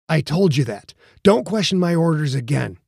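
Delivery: firm voice of command. Acted. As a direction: give the order like a captain. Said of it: "the ring of command".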